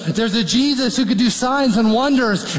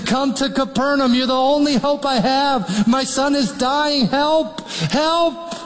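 raised, urgent begging of a father for his dying son; desperate pleading; 6 semitones higher than usual. Acted. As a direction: plead with him as if it is your last hope. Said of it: "pleading Jesus".

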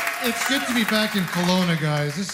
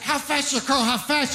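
mock kid; 8 semitones higher than usual. Imitating kid's rapid questions.

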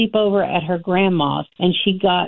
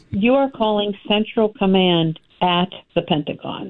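retold shout. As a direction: bark it out like a colonel. Colonel revealing Pentagon on the phone.

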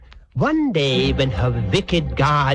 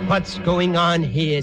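slow, suspicious demand; lightly voiced stern guardian, drawing it out; French horn character. Guardian horn catches the lovers, slow suspicious question. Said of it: "said the French horn".

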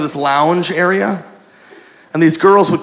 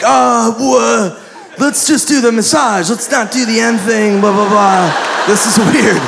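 high-pitched mock panic; panicking; 5 semitones higher than usual. Client begging off in the back area, mock panic. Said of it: "and I panic".

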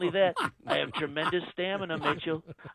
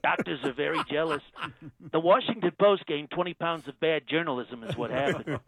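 Trump impression. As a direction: play the president, smug and self-assured. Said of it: "Donald Trump".

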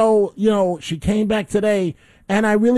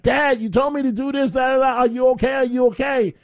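son voice; 4 semitones higher than usual. Retold or imitated. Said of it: "he's like".

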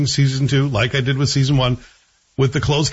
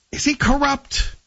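mock suspense; 12 semitones higher than usual. Teasing mock suspense about plot.

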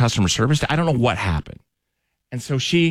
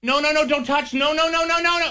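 high, mock-frantic voice, much higher; imitating the other woman. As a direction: squeal no no no like a panicked stranger. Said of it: "I hear from the counter".

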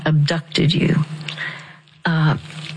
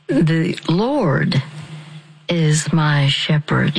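slow, measured phrase; said very slowly; slower than usual. Shown as a demonstration. Counselor to caller, slowly modeling the psalm. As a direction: let each word land slowly. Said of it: "You say it very slowly".

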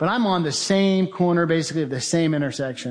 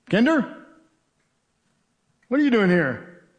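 surprised colleague; 5 semitones higher than usual. Retold or imitated. Colleague voiced in story.

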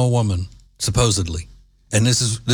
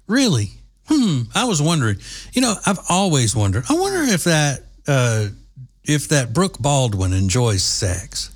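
sarcastic; 2 semitones higher than usual. Real, not acted. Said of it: "sarcastic mock wonder".

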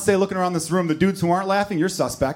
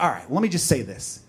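lecturing woman; 5 semitones lower than usual. Retold or imitated. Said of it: "she's like".

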